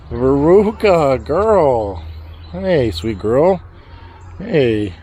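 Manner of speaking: slow tender coo. Real, not acted. Farmer gently soothing his goat Veruca.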